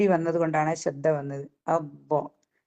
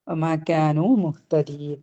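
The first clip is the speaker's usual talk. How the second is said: Quran recitation; 3 semitones lower, slower than usual. Shown as a demonstration. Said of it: "teacher recites the verse".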